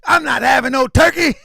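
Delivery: put-on high, loud whining five-year-old; mock whiny child. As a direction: whine like a kid refusing his dinner. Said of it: "My, my son was like".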